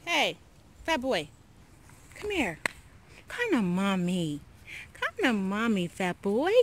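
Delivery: high, loud coaxing call; calling the dog. Real, not acted. Mom calling her fat dog to come, loud coaxing.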